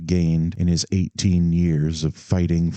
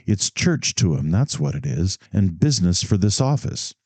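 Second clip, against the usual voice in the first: eager; 2 semitones higher than usual. Acted. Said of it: "he went eagerly on".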